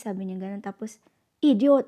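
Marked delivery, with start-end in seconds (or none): 1.4-1.9 mock insult. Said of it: "nabigla na lang niya akong sinigawan".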